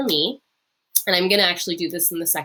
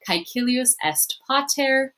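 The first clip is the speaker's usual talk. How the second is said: slow model reading; 5 semitones higher than usual. Shown as a demonstration. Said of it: "practice saying it yourself".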